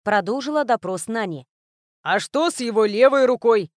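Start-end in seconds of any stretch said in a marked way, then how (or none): 2.0-3.7 louder character voice with a laugh in it; a big guy chuckling out a joke; chuckling Grok. A narrator's reading. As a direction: Grok guffawing at his own joke. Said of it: "хохотнул Грок".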